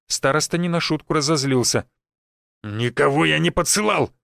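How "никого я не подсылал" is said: bark. Acted. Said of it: "рявкнул он".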